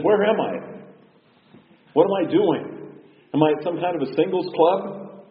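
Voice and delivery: high-pitched, eager questions; excited frog. Acted. Frog eagerly quizzing the fortune teller about his future, excited. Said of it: "The frog was really excited".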